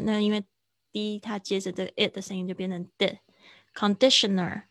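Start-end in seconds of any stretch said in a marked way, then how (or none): 3.7-4.6 Conditioner said louder, weight on the di syllable; stressed on DI. Shown as a demonstration. Teacher modelling the stress for the class. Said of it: "在D上面".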